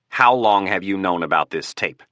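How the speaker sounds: a touch of gritted teeth; through clenched teeth. Acted. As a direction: teeth clenched, holding anger in. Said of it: "Through clenched teeth".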